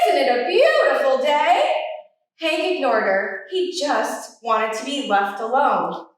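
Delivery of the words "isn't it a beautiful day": laughing greeting. Acted. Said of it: "called out".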